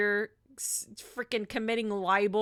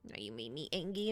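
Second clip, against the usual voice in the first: mock angry; 10 semitones lower, 11 dB quieter, faster than usual. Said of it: "Now I'm angry".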